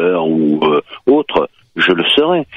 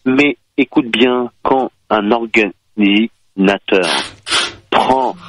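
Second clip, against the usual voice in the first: patronizing tone. Acted. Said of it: "ne me parle pas de, d'un ton paternaliste".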